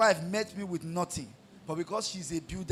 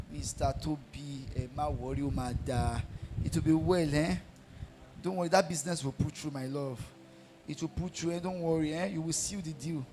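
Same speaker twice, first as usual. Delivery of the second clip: soothing mistress. Retold or imitated. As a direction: coo him calm like a mistress would. Prostitute soothing the worried man.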